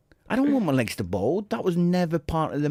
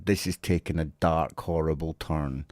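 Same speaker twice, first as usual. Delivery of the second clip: mock dismay; 9 semitones lower than usual. Real, not acted. Mock horror at ageing jibe.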